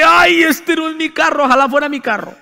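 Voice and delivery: high, half-laughing dismay; mock panic. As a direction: ham up the worried son. Retelling his panic over dad's car.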